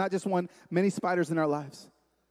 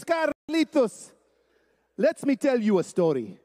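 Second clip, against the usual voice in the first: storytelling father; 3 semitones higher, slower than usual. Retold or imitated. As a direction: imitate dad launching into a story. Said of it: "He goes".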